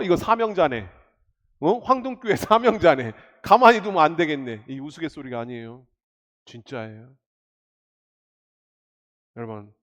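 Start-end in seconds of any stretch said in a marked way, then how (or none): 0.0-4.6 louder, plotting devil muttering to himself; Satan sizing up a threat; lightly voiced devil deciding to strike; scheming Satan. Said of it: "사단이 여러분들 노려서".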